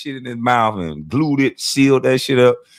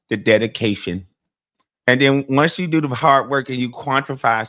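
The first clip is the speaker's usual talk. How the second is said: lightly put-on bag-chaser impression; mock motivational speech through a stiffly held mouth; Fire Marshal Bill mouth. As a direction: talk with top teeth hidden, lightly imitating a self-important hustler. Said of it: "I did that Fire Marshal Bill shit".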